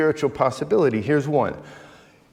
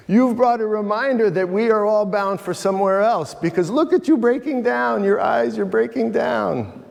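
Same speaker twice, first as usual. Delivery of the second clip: higher, earnest market woman; earnest knowing woman; 5 semitones higher than usual. Retold or imitated. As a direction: press the point kindly but firmly. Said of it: "Fatima told him".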